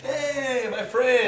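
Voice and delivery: high-pitched mock Portuguese accent greeting; sing-song imitation Portuguese accent. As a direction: greet like a friendly Brazilian instructor, Portuguese accent. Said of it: "with their little Portuguese accent".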